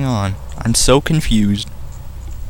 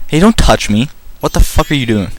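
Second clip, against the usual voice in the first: indignant protest; 3 semitones higher than usual. Pretend. Voicing Link being robbed.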